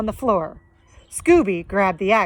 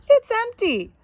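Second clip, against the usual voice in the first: Shaggy voice; 12 semitones higher than usual. Acted.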